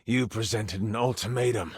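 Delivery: low, cold tiger villain accusing the hero; villain monologue. Acted. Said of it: "a monologue for him".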